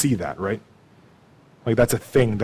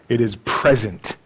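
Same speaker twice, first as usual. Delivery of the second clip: usual speaking voice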